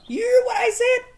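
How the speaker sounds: high, loud yelled threat; hammed-up shouting threat; mock yell. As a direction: shout him down with a gun. Acted gun threat quote.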